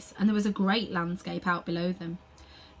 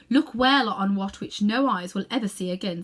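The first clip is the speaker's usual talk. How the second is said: proud queen; 4 dB louder than usual. Acted. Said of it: "said the Queen".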